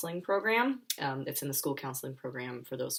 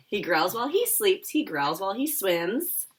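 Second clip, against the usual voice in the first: laughing; 4 semitones higher, 6 dB louder than usual. Real, not acted.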